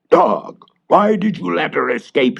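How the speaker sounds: high, loud witch's shout. Acted. Witch shouting at her dog for letting the girl escape. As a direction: scold the dog like an angry witch. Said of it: "shouted the witch".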